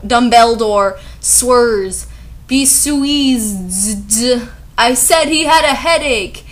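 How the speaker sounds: indignant put-on author voice, drawn-out words; mock fanfic author. Author telling flamers to stop, mock indignant. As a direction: read it as a hammed-up defensive writer.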